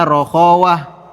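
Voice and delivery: "rokhawah" with a soft drawn kh. Shown as a demonstration. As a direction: let "rokhawah" flow long and soft. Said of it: "sifat rokhawah". ("rokhawah" diucapkan lembut dan panjang)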